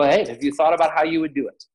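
casual, offhand question; nonchalant. Shown as a demonstration. Counselor checking in on a suicidal teen, nonchalant. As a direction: ask it lightly, as if no big deal. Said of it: "I very just nonchalantly go".

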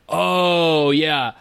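breezy, unbothered, lightly laughing; casual hungover lawyer. Retold or imitated. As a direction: shrug it off like it's nothing. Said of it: "he was like".

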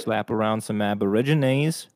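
hammed-up Aussie bloke; exaggerated Aussie voice; mock Australian accent. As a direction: put on broad Australian. Continues the Aussie riff.

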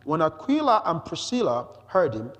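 measured, emphatic public reading; scripture reading. Acted. Preacher introduces Apollos from the scriptures, emphatic scripture reading. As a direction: read it out deliberately for the listeners. Reads the next verse aloud.

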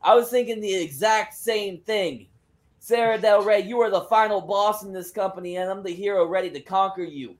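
put-on Spanish-accented wrestler laying down a challenge; Thunder Rosa, accented promo. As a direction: open on a big shout, then challenge, Spanish accent. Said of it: "allowed to do this accent".

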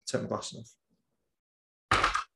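slow, soft and deliberate, with a long pause; slowed right down. Shown as a demonstration. Speaker switching the vibe to make a point, slowed right down. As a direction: drop the volume and leave gaps between words. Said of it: "I want to slow it right down".

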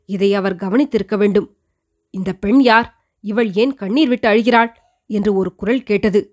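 put-on an old queen telling her son of her youth; elderly queen recounting. The queen tells her son Madhurantakan how she married, lightly voiced.

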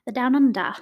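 hammed-up, badly faked Aussie accent; bad Australian accent. True-crime host jokes about the case's location, bad Australian accent. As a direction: have a half-hearted go at an Australian accent. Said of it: "That was my horrible Australian accent".

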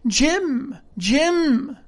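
delighted castaway trying out a name; pleased. A narrator's reading. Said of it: "This quite pleased him apparently".

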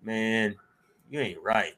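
a hint of a cowboy granddad; lightly voiced old cowboy granddad. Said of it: "he sounded like some old cowboy".

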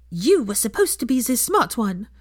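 disdainful sister-in-law jab; contemptuous. A narrator's reading. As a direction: sneer it down at her. Fleur's contemptuous remark.

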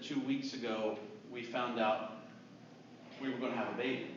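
low, soft, halting admission; retold heavy-hearted telling; somber confession. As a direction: confess it quietly, with pauses.

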